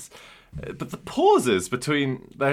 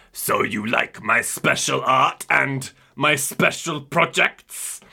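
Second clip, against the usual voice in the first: villain voice; slower than usual. Retold or imitated. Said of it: "And Mister Coos says".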